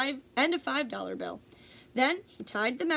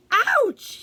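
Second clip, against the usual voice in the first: loud, much higher yelp of pain; screamed; 10 semitones higher, 10 dB louder than usual. A narrator's reading. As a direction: shriek as the bite lands. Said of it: "he screamed".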